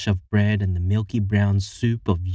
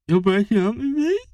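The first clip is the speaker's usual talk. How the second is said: spluttering; 12 semitones higher, 3 dB louder than usual. Acted. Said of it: "spluttered Charlie".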